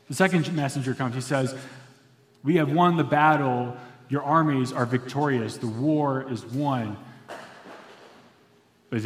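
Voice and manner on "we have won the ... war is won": triumphant announcement. Acted. Messenger announces the victory.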